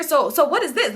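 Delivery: exaggerated sister impression. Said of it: "she ain't talking like that, though".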